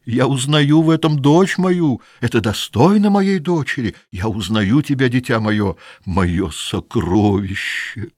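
high, slow gloating miser's voice; greedy old father. Acted. Greedy old Grandet cooing at his daughter over the gold.

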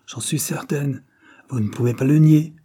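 accusing, rising to a loud cry. A narrator's reading. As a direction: she insists, voice climbing high and loud. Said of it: "s'écria madame Dare". (s'écrie, accusatrice et forte)

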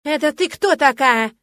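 высоко, громко и медленно, почти визг; перекричи соперницу; громко и визгливо. Acted. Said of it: "Ещё громче и немного визгливо спросила она". (визгливо и громко, с вызовом)

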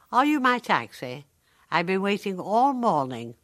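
a hint of impatient Renee; lightly voiced impatient old woman. Renee asks a visitor if he's her taxi, mildly impatient.

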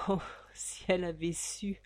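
soft hushed whisper; whispered aside. A narrator's reading. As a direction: lean in and whisper it.

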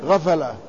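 "غفلة" said ghafala, both vowels a; ghayn, open fa. Shown as a demonstration. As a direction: open "غفلة" with gh, then fa with fatha. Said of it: "بالغين المعجمة والفاء المفتوحتين".

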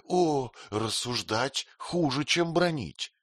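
high, slow despairing wail; desperate cry. A narrator's reading. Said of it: "закричала Дора в отчаянии". (отчаянный вскрик, выше и медленнее)

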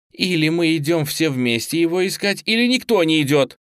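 high, loud, heated demand; insistent ultimatum. A narrator's reading. Student refusing to let the teacher go alone, insistent.

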